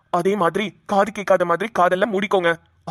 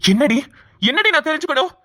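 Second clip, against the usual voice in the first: angry retort; 5 semitones higher than usual. Acted. Father snaps at wife.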